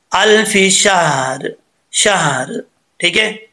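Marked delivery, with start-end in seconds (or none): 0.1-1.5 slow अल्फि शहर with a stop on साकिन र; stopping on शहर. Shown as a demonstration. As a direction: recite slowly and stop on शहर. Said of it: "अगर आप वक्फ करेंगे तो फिर". (शहर पर वक़्फ़ करते हुए धीरे से)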